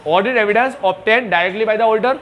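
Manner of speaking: very slow, word by word; slow dictation. Shown as a demonstration. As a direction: dictate it slowly for notes. Teacher dictating slowly. (धीरे-धीरे लिखवाना)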